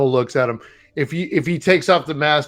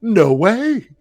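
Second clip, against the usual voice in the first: laughing retort; 7 semitones higher than usual. Retold or imitated. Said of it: "And I go".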